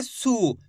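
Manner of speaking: सु without dragging the u; unstretched short u. Shown as a demonstration. Teacher warns against stretching the matra, short सु. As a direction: keep the vowel in सु short. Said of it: "खींच के नहीं करेंगे".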